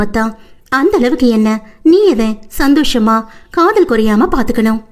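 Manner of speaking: lightly voiced young wife soothing her husband; tender heroine voice. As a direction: gently comfort him as the loving wife. Heroine speaking lovingly.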